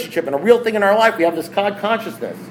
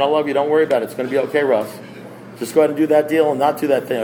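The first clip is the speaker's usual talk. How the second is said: gentle voice of God; 4 semitones lower, faster than usual. Retold or imitated. God's voice quoted gently.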